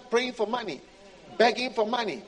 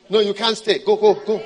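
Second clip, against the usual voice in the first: louder, dismissive God voice; God brushing off the believer; 9 dB louder than usual. Acted. God sending away the begging believer, dismissive. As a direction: shoo the beggar away, loudly.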